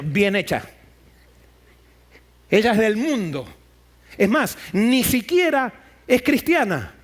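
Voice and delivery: a touch of smug sneer; mild gloating. Retold or imitated. Preacher voicing disciples gloating at the foreign woman, mildly smug. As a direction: gloat over her, lightly voiced.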